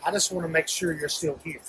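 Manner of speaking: soft, small and fast; hushed little Piglet voice. Retold or imitated. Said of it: "And Piglet says".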